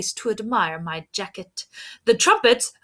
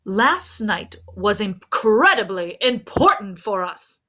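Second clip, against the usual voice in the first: boisterous; 3 dB louder than usual. Acted. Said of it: "proclaimed the trumpets in a boisterous manner".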